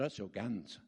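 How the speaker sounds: low, laughing through it; laughing confession. Retold or imitated. New churchgoer telling missionaries his trade, laughing. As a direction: admit it with a chuckle.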